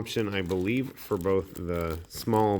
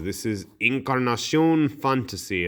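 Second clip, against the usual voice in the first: a mock Spanish accent, lightly done; hammed-up fake Spanish accent on the product name; bad Spanish accent; 4 semitones higher than usual. Unboxing host naming the box in a bad Spanish accent. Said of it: "I'm saying it with a bad Spanish accent".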